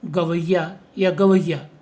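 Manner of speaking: गवैया said twice, second with a diphthong; slow contrast of गवैया forms; two pronunciations. Shown as a demonstration. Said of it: "जैसे".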